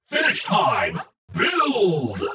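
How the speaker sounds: loud, high mechanical belt shout; belt yell. A narrator's reading. The belt yells the finishing move, loud. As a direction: announce the finisher like a device. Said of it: "the belt yelled".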